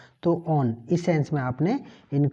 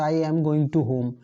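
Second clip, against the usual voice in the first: wrong version, slow; much slower than usual. Shown as a demonstration. Teacher slowly models the wrong sentence to students. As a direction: slowly spell out the wrong "I am going to home" with "to". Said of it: "गलत हो जाएगा".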